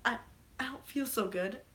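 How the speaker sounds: softly acted, faltering plea; a weak, hesitant death-scene line; acting out a dying hero. Acting out the Spider-Man death scene, weak and faltering. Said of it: "I'm gonna act out the scene here".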